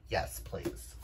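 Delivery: soft, breathy eager whisper; hushed delighted aside; whispered yes please. Real, not acted. Eager reaction to lesbian romance.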